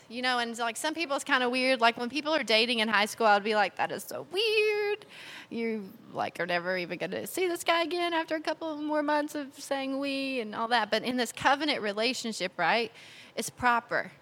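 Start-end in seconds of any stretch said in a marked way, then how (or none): 3.8-10.4 mocking disbelief. Mocking high-school couples.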